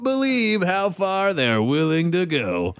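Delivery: lightly put-on, slow showman's delivery; mock announcer. Host teasing the guest who is too red, mock announcer. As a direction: stretch it out like a teaser voiceover.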